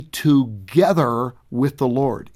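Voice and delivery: together slowed and stretched out; stress on together. Shown as a demonstration. Pastor drawing out together to comfort bereaved listeners. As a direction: lean on the word together, drawn out slowly. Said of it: "Emphasis on the word together".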